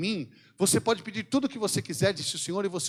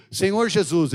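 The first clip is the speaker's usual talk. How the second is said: leading a prayer; 6 dB louder, slower than usual. Shown as a demonstration. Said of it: "Eu repito, você fala comigo".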